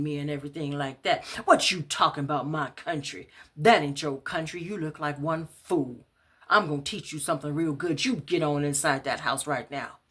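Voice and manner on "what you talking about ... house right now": angry yelling. Acted. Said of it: "heard him yelling at me".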